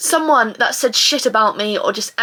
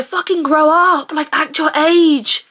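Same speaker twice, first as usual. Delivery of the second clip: slow, drawn-out scolding, slightly higher; exasperated scolding; 3 semitones higher, slower than usual. Acted. Scolding herself.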